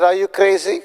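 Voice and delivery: high, disbelieving question; incredulous. Retold or imitated. Telling the prophet he's crazy, mock incredulous. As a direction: scoff at the idea in disbelief.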